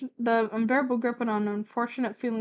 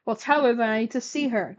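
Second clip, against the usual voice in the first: snarled; 2 semitones higher, 5 dB louder than usual. Acted. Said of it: "Gladion snarled".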